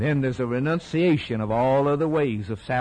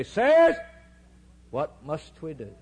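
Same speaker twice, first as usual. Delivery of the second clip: pleading cry. Retold or imitated. A preacher voicing the Pentecost crowd's desperate plea. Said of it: "what did the people say?".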